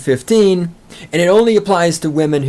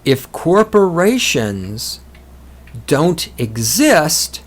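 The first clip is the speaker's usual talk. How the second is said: very slow, each word spaced apart; slowly; slower than usual. Shown as a demonstration. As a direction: spell it out slowly for a listener who won't get it. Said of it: "I'll try to say this slowly".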